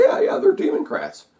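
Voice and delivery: high, breathy laughing sarcasm; laughing mock agreement. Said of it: "I could say".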